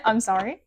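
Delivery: "sorry" swooping up like a question; sing-songy ending. Real, not acted. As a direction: let "sorry" rise at the end. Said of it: "I did it again".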